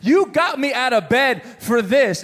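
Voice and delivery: mock indignant disbelief; acted exasperation, emphatic; retold trash talk. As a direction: complain like a put-upon husband. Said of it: "as I'm talking trash to her".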